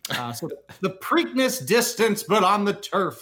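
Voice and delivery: hint of a track announcer calling the card; Slim announcer voice. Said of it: "channeling my inner Slim with this announcer voice".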